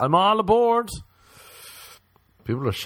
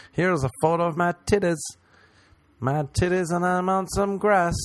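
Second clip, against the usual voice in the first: mock influencer; 5 semitones higher than usual. Mocking beach-photo posters to listeners, hammed-up influencer voice. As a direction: play a preening nature poser.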